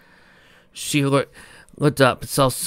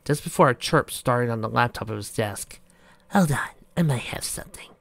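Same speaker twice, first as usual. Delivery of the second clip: whispering; 4 dB quieter than usual. Acted. Hushed exchange, unvoiced.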